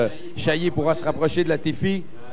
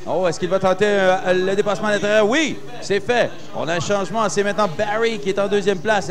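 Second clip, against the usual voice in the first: excited; 4 semitones higher than usual. Real, not acted. Overtake called live, pitch up.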